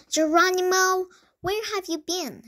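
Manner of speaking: high scolding cry, loud on the name; shrieking. A narrator's reading. Sister confronting her late brother, shrieking. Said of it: "she shrieked".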